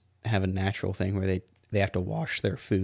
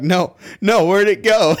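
high, loud panicked little critter voice; squeaky alarmed animal cry of loss; distressed raccoon; 10 semitones higher, 8 dB louder, slower than usual. Retold or imitated. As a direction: voice the raccoon frantically hunting for its candy. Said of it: "the raccoon is just splashing in the water like".

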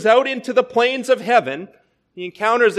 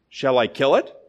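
solemn angel; 6 semitones lower than usual. A narrator's reading. Angel offers again.

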